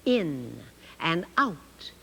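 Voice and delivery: slow, careful sign reading. Shown as a demonstration. Teacher reading a sign slowly to children. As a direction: read each word slowly for children. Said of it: "here's an easy one".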